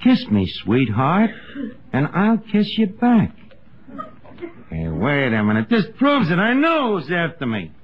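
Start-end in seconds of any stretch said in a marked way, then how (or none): 0.0-3.3 slow, sing-song verse reading; reading a valentine poem. Acted. Archie reading the valentine aloud, slow and sing-song. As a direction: read the rhyme out slowly. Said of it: "Let's see here. It's a poem".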